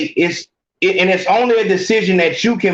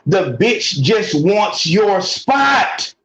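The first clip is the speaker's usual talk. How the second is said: emphatic shout; much slower than usual. Real, not acted. Emphatic punchline in rant.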